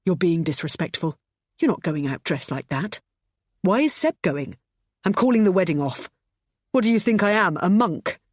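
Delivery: lightly voiced controlling husband. His remembered words.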